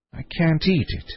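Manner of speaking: a touch of tearful self-pity; rueful. A narrator's reading. Queen crying over her honey, rueful. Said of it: "looking ruefully at the honey pot".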